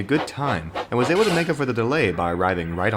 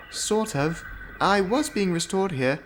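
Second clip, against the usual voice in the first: higher and softer, a hopeful lady engine; high gentle engine voice; 6 semitones higher, 4 dB quieter than usual. Acted. Rebecca answers Oliver in a higher, softer voice. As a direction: ask shyly. Rebecca tells her story.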